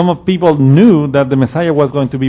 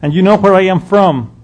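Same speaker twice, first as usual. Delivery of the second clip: mocking laugh, then higher teasing tone; Jesus scoffing at the people in Jerusalem; very sarcastic; 3 semitones higher than usual. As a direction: laugh at their certainty. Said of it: "But very sarcastically".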